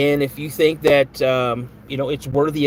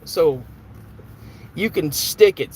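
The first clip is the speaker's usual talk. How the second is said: ticked off; 3 semitones higher than usual. Real, not acted. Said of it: "I don't normally get ticked off real quick".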